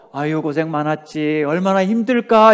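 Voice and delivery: gentle model of the right comfort; sympathetic comfort. Shown as a demonstration. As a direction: soothe someone who is worn out. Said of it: "그렇게 하지 말고".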